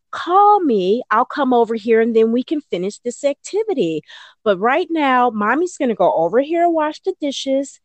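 a hint of a bright firm mom; cheerful but firm, setting the rule; firm mom to child. Mom telling her whining child she's leaving, lightly firm. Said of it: "then I would say".

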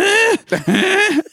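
high imitated alarm moan; mock orgasm noise. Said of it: "he has an orgasm".

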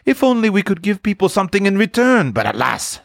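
high, wistful lament; sad. A narrator's reading. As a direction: wish for it regretfully, sinking at the end. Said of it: "she said sadly".

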